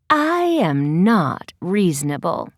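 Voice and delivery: low, slow fake-cheery cat voice; forced smile. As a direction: smile without meaning it. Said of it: "smiling but not meaning it".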